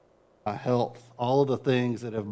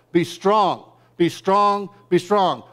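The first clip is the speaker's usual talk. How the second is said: pushy, louder and higher, like a hustle coach; mock drill sergeant, louder and higher; rising mock exhortation; 5 semitones higher, 4 dB louder, slower than usual. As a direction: bark it like the world's drill sergeant. Preacher voicing the world's demands.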